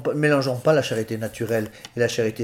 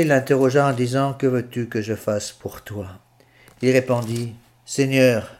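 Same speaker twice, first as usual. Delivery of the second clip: measured scripture reading from the pulpit; Gospel reading. Acted. Priest reads the Gospel of the blind man to the faithful, solemn reading.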